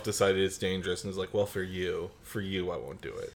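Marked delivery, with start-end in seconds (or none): 1.3-3.3 low, soft, dropping away; mock magnanimous concession. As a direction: concede quietly as if doing a favor. Nancy grudgingly concedes to friends, retold.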